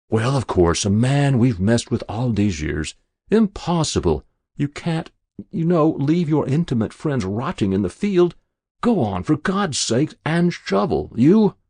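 high, rising, flustered babble; agitated babble. A narrator's reading. Adjutant protesting to his fellow officer at the burial, agitated babble. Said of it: "The adjutant began to babble".

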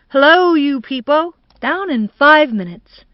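high, loud hearty call; shouting. A narrator's reading. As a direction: call out to the whole house. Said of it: "Harry shouted".

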